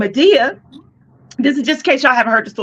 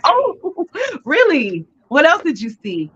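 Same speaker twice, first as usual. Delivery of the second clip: smiling delight; 5 semitones higher, slower than usual. Retold or imitated. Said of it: "she's smiling".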